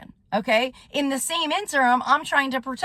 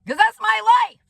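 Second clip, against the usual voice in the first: angry outburst; 9 semitones higher, 4 dB louder than usual. Real, not acted. Angry rant about her life.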